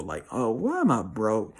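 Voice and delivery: hammed-up sigh of a person stuck in a rut; sighing broke complainer. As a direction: imitate someone worn down by bills. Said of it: "a financial example".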